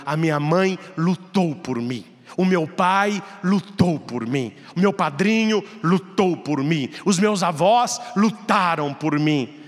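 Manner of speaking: rising, hammered repetition; building sermon climax. Acted. (pregação crescente, batendo no "tem que")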